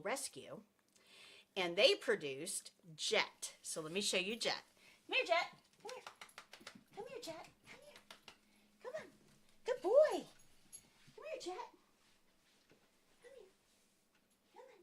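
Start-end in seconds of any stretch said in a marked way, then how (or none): 5.1-14.8 high, soft sing-song call to a puppy; coaxing the dog. Real, not acted. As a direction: coax the dog over sweetly, way up high. Calling her dog over.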